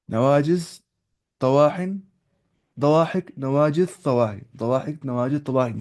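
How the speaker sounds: नवाजिज, तवाहिन, दवाहिक each said clearly with a rising end; teaching tooth names. Shown as a demonstration. Teacher drilling Arabic tooth names for students, rising list. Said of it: "जो तुम बोलते हैं अदरास".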